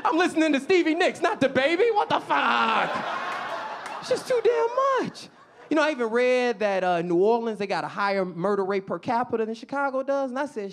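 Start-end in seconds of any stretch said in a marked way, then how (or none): 0.0-5.3 high, raised outraged yelp; indignant protest. Acted. Driver to the drive-by shooters, indignant and high-pitched.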